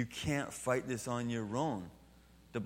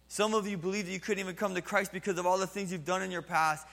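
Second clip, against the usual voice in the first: voicing Jesus; 7 semitones higher, faster than usual. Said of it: "What he's saying is".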